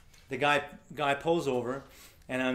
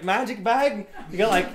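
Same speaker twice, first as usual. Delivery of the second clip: high, loud mock disbelief; incredulous driver; 7 semitones higher, 6 dB louder than usual. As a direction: balk loudly at an absurd plan. Driver mocks the small bag.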